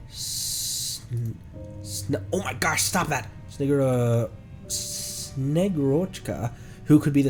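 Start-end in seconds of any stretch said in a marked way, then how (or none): none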